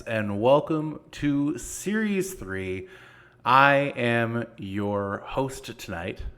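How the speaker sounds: slow, grand show host welcome; announcer voice. Acted.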